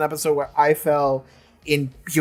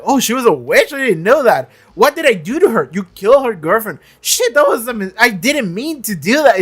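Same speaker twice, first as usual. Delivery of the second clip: higher, hammed-up scared nerd; mock-frantic higher voice of a guy who just realised; panicky Warren; 5 semitones higher than usual. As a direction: play him squeaking in dawning terror.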